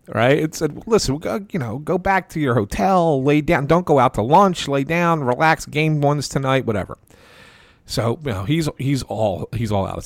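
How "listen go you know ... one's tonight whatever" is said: appeasing him. Retold or imitated. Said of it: "all I could do was appease him".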